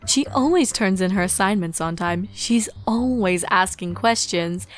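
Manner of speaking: a teacher proud of her pupil; a hint of beaming pride. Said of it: "Celestia beamed".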